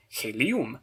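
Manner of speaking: "helium" said he-li-UM, stress on the final UM; "helium" with end stress, he-li-UM; stress before last consonant. Shown as a demonstration. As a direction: lean on the last syllable of "helium". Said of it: "put the stress on the vowel before the last consonant".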